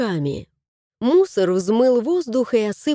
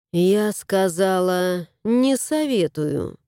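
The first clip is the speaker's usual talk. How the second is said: stern warning; 2 semitones lower, slower than usual. Acted.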